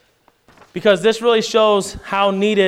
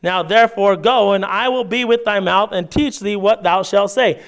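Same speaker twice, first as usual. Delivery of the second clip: measured, raised reading of the passage; scripture reading; 3 semitones higher than usual. Acted. Pastor reads Exodus aloud to the church, measured reading voice. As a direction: read the King James text to the congregation.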